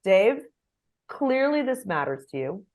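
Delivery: gentle, unhurried reassurance; soothing. Shown as a demonstration. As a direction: ease an angry colleague down. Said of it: "I can say".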